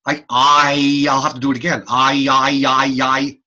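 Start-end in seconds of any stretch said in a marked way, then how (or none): 1.9-3.4 repeated I gliding; diphthong demo. Shown as a demonstration. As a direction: show the glide in I. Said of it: "I can't sustain I".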